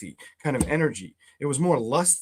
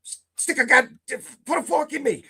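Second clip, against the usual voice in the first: higher, hammed-up exasperation; mock despair; 10 semitones higher than usual. Real, not acted. Reader to Libras, hammed-up higher despair. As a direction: play it as comic defeat.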